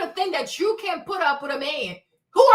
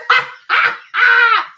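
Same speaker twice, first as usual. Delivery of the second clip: high, loud burst of laughter; 8 semitones higher, 9 dB louder than usual. Real, not acted. Laughing off her pregnancy panic, a loud burst. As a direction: break into laughing.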